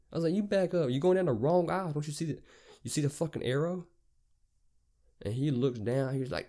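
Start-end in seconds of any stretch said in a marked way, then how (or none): 0.3-3.8 high, exasperated retelling; worked-up, indignant demand; heated argument. Retold or imitated. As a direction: argue back at him, pitched well up. Acted quarrel with the driver.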